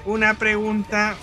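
slow, stiff robotic voice; lightly imitating a robot announcer; toy robot voice. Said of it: "se escucha una voz de robot que puse que dice".

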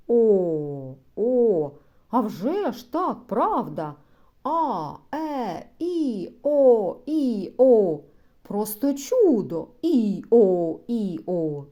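гучно, в захваті, вигукує «О» на всю силу; радіє, як дитина, виспівуючи «і, о»; захоплені вигуки голосних. Acted. (у захваті вигукує голосні)

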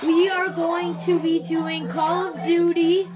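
YouTuber intro. Acted.

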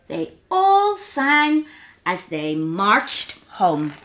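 measured, lilting storybook reading; gentle picture-book storytelling; children's story narration. A narrator's reading. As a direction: read it slowly to little listeners.

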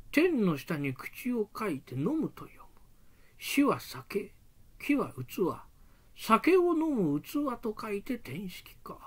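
slow hushed whisper, puzzling it out; whispering to himself. Acted. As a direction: murmur it slowly under your breath. Priest puzzling over a word.

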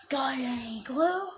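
slow, whiny begging; whiny beggar. Pretend. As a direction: plead like a street beggar.

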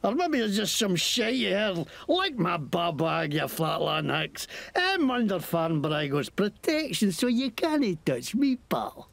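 lightly Scottish mocking thug; Scottish accent. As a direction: sneer at them in Scots. Scottish NPC taunts.

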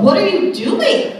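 high, drawn-out disbelieving question; hammed-up incredulous squeal; mock astonishment. Acts out her startled reaction.

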